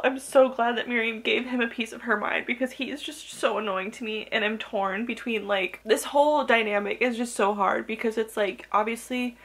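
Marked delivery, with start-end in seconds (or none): none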